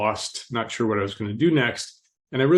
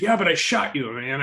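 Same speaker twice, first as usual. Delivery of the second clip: high, insistent protest; a jumpy gunman who can't believe it; adrenalated; 5 semitones higher than usual. Retold or imitated. Gunman insisting to his victim he shot him, wound up. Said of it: "he was all adrenalated and jumping around".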